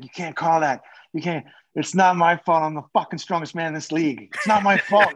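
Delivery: mock-indignant yell, punching key words; retold yelling. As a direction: imitate a teammate's dead-serious protest, half-yelled. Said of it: "Dano's yelling".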